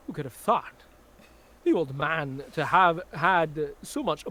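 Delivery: put-on Walken's halting cadence put into a Scottish accent; Scottish Christopher Walken. Performing Lady Macbeth's monologue for the stream, in a Scottish Walken voice. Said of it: "As performed by Scottish Christopher Walken".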